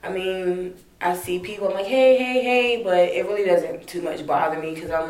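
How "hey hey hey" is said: bright high greeting, called out higher; sing-song call of hey. Retold or imitated. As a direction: hail people across the room. Calling out to people she sees.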